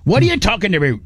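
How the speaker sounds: mock Canadian, lilting up; Canadian accent. Host's Canadian impression. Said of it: "my Canadian".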